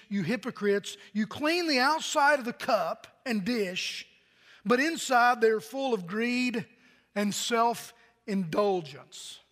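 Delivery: slow, weighty reading of the verse; scripture reading. Acted. Pastor reading Jesus' words to the congregation, slow and solemn. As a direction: let each clause land slowly.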